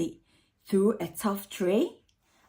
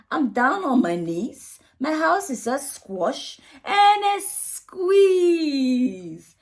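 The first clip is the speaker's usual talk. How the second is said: put-on fretful old lady; 3 semitones higher than usual. Old lady's distressed lament.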